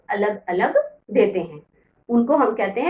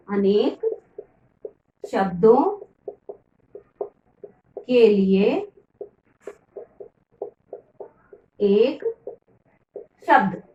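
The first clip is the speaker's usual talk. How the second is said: अनेक, शब्दों, के लिए, एक, शब्द each said separately with long pauses; word by word; slower than usual. Shown as a demonstration. Teacher to children, slowly dictating the lesson title. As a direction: lay out the title one word at a time.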